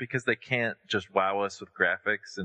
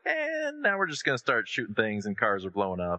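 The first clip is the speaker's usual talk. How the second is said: mock announcement. Fan imitating a trailer's turn to shooting, mock announcement. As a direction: imitate a game switching gears, opening on a stretched word. Voices the game's turn to action.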